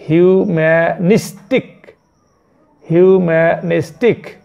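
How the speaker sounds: হিউম্যানিস্টিক said slowly and clearly, syllable by syllable, with a rising end; teacher sounding out হিউম্যানিস্টিক; careful pronunciation. Shown as a demonstration. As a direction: model হিউম্যানিস্টিক slowly so students can copy it. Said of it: "এটা উচ্চারণ হচ্ছে হিউম্যানিস্টিক".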